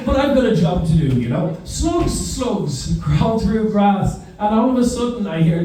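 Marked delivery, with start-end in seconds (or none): 1.6-4.2 sing-song recital. Retold or imitated. Leading recital in class.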